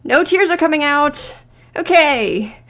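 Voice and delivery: loud laugh breaking into the words; laughing through it. Acted. Character failing to cry, laughing it off loudly. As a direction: give up and laugh at yourself.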